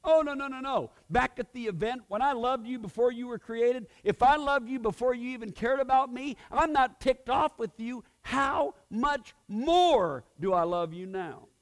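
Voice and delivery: high, loud, emphatic voice of God; God pleading. Retold or imitated. God telling believers he still loves them, high and loud. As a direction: insist like a father who won't let go. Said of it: "what he's actually saying is".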